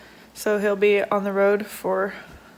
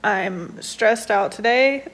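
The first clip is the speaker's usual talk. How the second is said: stressed and overwhelmed. Real, not acted. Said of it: "I'm overwhelmed, I'm nervous".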